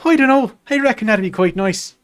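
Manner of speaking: breezy put-on Irish accent. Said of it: "Irish accent".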